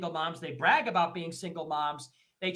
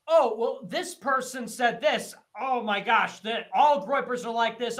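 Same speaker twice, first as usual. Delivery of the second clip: higher, louder mock whine; mocking e-girl; 3 semitones higher, 6 dB louder than usual. Streamer mocking e-girl complaining about mean replies, higher whiny voice. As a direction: ham up a self-pitying influencer complaint. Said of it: "And then she'll say".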